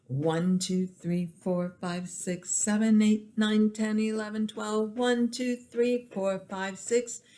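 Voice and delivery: twelve-beat count. Shown as a demonstration. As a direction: count of twelve, pitch climbing toward the end. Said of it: "It is in twelve".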